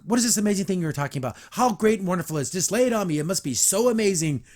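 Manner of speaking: fast mock-sarcastic jab; lightly imitating a mean, sarcastic boss. Carmen mocking Zach and Ivy's big news, fast sarcasm. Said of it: "she's super mean".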